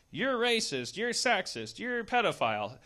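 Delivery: mocking accusation. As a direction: jab each accusation out. Mocking poor people's accusations.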